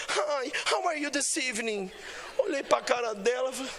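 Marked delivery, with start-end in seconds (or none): 0.1-1.9 American waitress. Retold or imitated. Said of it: "vem a americaninha".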